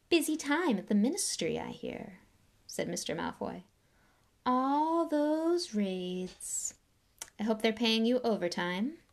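lightly voiced, slow silky disdain; cold aristocrat. Lucius greeting Arthur, lightly voiced cold disdain. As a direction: greet him like something unpleasant.

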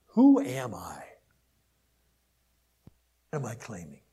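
a breathy stage whisper; whispered question. Acted. Preacher asks himself under his breath. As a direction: ask it to yourself under your breath. Rhetorical self-question in sermon.

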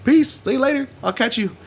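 high, soft mock backing-off; sheepish retreat. Retold retreat after being told out.

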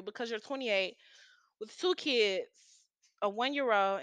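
hushed, as if sharing a pity; pitying whisper. Real, not acted. Pitying him, dropping voice.

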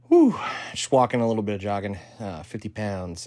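panting after a workout; short of breath, words between breaths. Real, not acted. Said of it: "I'm kinda out of breath".

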